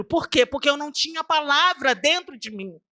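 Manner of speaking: usual speaking voice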